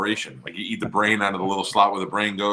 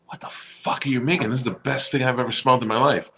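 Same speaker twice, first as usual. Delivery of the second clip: raised, animated amazed reaction; wowed, higher-pitched retelling; amazed excitement; 5 semitones higher than usual. Retold or imitated. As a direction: retell being blown away by a smell. Retold amazed question to relatives.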